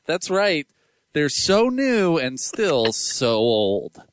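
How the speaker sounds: hosts plug the Kia Sorento, mock announcer read; playful sponsor announcement, last words drawn out. Hosts joke through a car sponsor spot, mock ad read.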